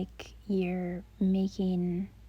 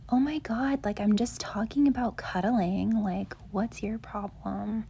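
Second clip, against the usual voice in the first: mock defensive. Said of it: "with that energy".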